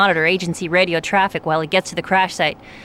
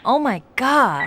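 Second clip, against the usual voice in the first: slow, louder, higher dismay; shocked gasp; 4 semitones higher, 5 dB louder, slower than usual. Acted. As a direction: let the shock sink in slowly. Teresa hears of infection.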